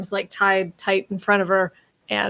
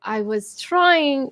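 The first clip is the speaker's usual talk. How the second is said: put-on French accent; 3 semitones higher, much slower than usual. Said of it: "I'm gonna try again".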